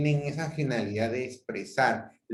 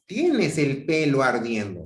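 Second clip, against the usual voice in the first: louder exclamatory burst; startled exclamation; 5 dB louder than usual. Shown as a demonstration. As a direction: exclaim it in alarm. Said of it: "una actitud ya exclamativa".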